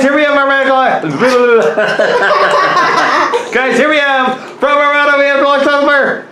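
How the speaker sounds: high, fast chipmunk chatter; sped-up squeaky cartoon voice. Real, not acted. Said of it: "we're talking like chipmunk".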